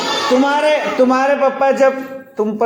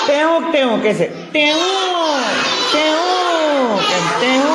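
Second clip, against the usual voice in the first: peacock call; 5 semitones higher, much slower than usual. Pretend. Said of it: "मोर ऐसे आवाज निकालते हैं".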